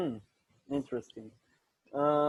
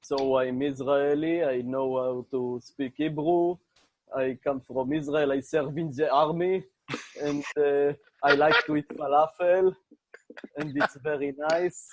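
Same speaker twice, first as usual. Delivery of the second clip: Israeli accent. Shown as a demonstration. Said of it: "I can have an Israeli accent, a strong one".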